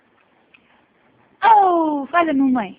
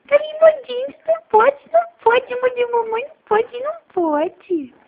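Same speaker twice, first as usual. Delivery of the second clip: playful scolding; 8 semitones higher than usual. Pretend. Mother playfully scolds biting baby.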